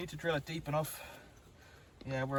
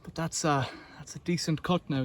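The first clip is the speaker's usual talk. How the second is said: winded after hard work; out of breath. Real, not acted. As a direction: talk between breaths. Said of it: "I'm out of breath quite".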